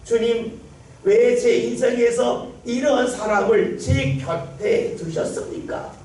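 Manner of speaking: mock lament to God, singsong complaint; complaining prayer. Believer complaining to God about a person, singsong grumble. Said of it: "원망 불평 아니겠습니까?".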